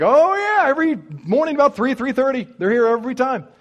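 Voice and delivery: high, eager diner cook voice; perky voice of the diner owner, pitched high; diner guy voice. Retold or imitated. Diner guy voiced in retold story.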